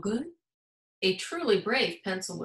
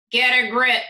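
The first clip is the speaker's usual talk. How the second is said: punchline; 10 dB louder than usual. A narrator's reading. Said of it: "said the pencil".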